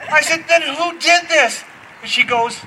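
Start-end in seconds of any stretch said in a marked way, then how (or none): 0.5-1.6 dad questioning. Retold or imitated.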